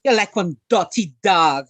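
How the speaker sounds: a punchy Guyanese Creolese jab. Shown as a demonstration. Joking insult for the live audience, Guyanese accent. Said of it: "If I was to say".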